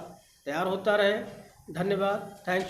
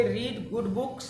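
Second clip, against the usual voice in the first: slow dictation; much slower than usual. Shown as a demonstration. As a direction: dictate each word for the class. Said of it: "तो इसका आप क्या लिखोगे".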